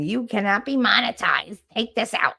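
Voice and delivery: lightly mocking official notice; mock notification email. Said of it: "my little email saying".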